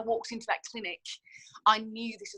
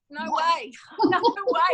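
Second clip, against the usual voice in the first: loud, high, laughing refusal; defiant no; 7 semitones higher, 7 dB louder, slower than usual. Real, not acted. To Australian doctors, a loud laughing refusal. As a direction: shout it down with a laugh.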